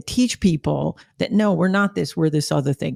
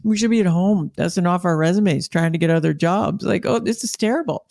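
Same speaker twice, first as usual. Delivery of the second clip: incredulous, laughing through it; retold shock at the customer, half laughing; laughing disbelief. Retelling to the listener his own laughing disbelief at the rep. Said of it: "And I'm like".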